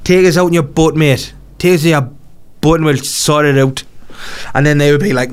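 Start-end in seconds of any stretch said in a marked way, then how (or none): 0.0-3.8 Gazza impression. Gazza voiced in a story.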